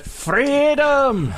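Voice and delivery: high, hammed-up battle cry; mock Scottish shout. Co-host imagining the Scottish reptile shouting out, mock battle cry. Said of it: "he shouts out".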